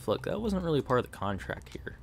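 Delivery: unvoiced sly whisper. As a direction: hiss it like a secret threat. Aside whispered to enemy.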